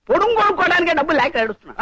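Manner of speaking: fast, half-laughing plea; laughing complaint. Acted. Priest pleads poverty to the card player, fast and laughing. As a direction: joke about being broke.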